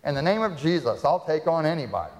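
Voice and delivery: swaggering prayer of confidence; boastful vow. Retold or imitated. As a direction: proclaim it like you can take on the world. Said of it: "we say".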